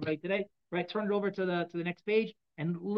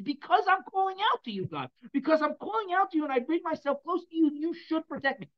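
much higher and louder, begging for protection; urgent plea; 9 semitones higher, 5 dB louder than usual. Acted. King David begging God to protect him, a loud high plea. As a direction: call out as if clinging to God.

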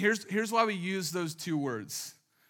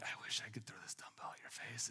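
a much softer, voiceless mock threat; hushed comic threat from an exhausted client; whisper; 6 semitones lower, 18 dB quieter, faster than usual. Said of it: "They're, like, whispering that".

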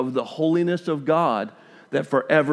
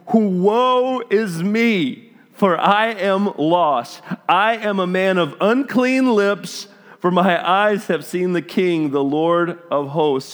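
anguished lament; 5 semitones higher than usual. Acted. Isaiah's lament read aloud.

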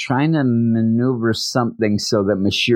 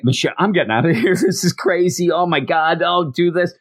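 mock yelling; 6 semitones higher than usual. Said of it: "they're yelling and screaming".

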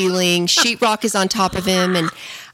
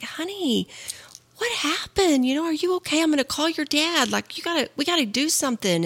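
high, hushed anxious questioning, acted out; worried retelling; 7 semitones higher, 4 dB quieter than usual. Wife retells checking on her fallen husband, worried. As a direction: fret over him in a high voice.

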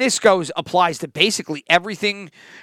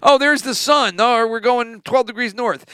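higher, casual guesswork voice; mock navigator; 4 semitones higher than usual. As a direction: play the navigator eyeballing the sun.

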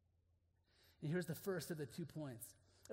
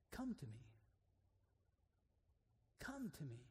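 quiet gentle voice; 4 semitones lower, 6 dB quieter than usual. Acted. God's answer in crisis.

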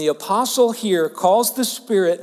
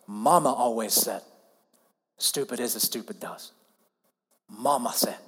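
Forrest Gump; 7 semitones lower, 7 dB quieter than usual. Retold or imitated. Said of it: "one of his most famous lines".

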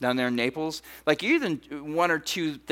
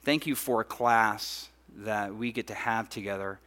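softer, lower praying voice; prayer; 3 semitones lower, 4 dB quieter than usual. Real, not acted. Pastor thanks God for the couples, prayerful. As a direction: pray quietly and sincerely aloud.

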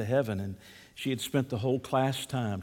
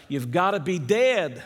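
put-on little boy calling out, pitched up; mock shout; 4 semitones higher, 3 dB louder than usual. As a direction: blurt it out like a kid from the back. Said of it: "shouted out".

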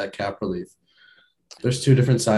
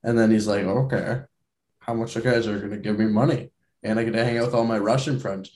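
bad Russian accent. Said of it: "terrible Russian accent".

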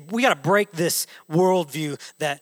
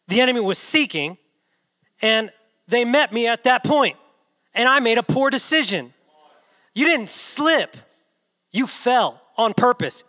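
emphatic preaching, punching the key words; firm, hard-hitting sermon delivery; forceful preaching; 3 semitones higher, 5 dB louder than usual. Real, not acted. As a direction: drive it home with weighty pauses.

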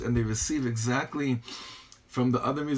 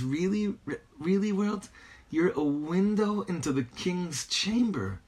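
higher-pitched, lightly acted appeal; Rebbe addressing the universe; 7 semitones higher than usual. Rebbe talking to the universe, lightly acted appeal. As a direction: lightly voice a plea to the world. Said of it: "he's talking to the universe".

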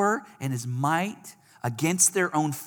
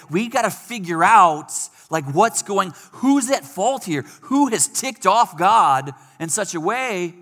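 anxious sailors; 2 semitones higher, 3 dB louder than usual. Retold or imitated. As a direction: voice the crew's panic. Sailors panic over blame.

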